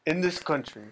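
put-on botched Cuban accent, sounding like an islander; tentative first stab at a movie gangster's Cuban accent; Tony Montana. Podcast host botches the quote's accent, mock Cuban gangster. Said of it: "I'm gonna use his voice".

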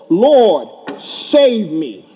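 a loud plea of Lord, save me with Lord called out loudest; Peter's loud cry for help. Retold or imitated. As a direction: call out Lord, save me like a sinking man begging for rescue. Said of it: "He cried out and says".

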